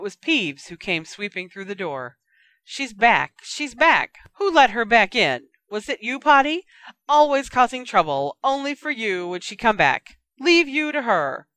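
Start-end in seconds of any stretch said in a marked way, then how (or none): 2.6-3.4 louder, higher cackling announcement; gleeful shout. Acted. Poltergeist shrieks at Harry. 3.4-4.2 even higher, loud taunting shriek; louder gleeful shriek. Acted. Poltergeist taunts Harry, shrieking higher. 4.3-11.5 loud, high cackling poltergeist; taunting shriek. Acted. Poltergeist jeers at Harry, loud and high.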